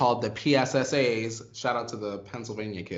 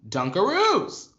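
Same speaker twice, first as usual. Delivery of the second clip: slow shout-out; 2 semitones higher, 5 dB louder, much slower than usual. Acted. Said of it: "take this moment to say".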